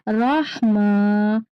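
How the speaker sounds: रहमा stretched slowly, throaty ह; slow drawn. Shown as a demonstration. Teacher models रहमा slowly for children. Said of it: "रहमा पढ़ना है".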